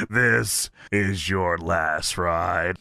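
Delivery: Undertaker's final threat. Retold or imitated. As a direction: stretch it out deep and ominous. Undertaker line continued.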